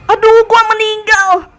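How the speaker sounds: high, loud drawn-out scream; slow, full-voiced high wail; real scream. Real, not acted. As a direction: scream in dismay as you die in the game. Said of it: "itu teriak beneran".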